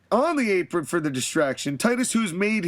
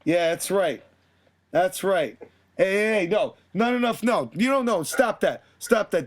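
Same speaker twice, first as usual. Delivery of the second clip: cocky wrestler promo. Retold or imitated.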